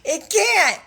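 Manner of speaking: high squeak imitating the cat; mock cat squeak. Laughing about the old cat, high mock squeak. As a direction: squeak like the cat can't meow.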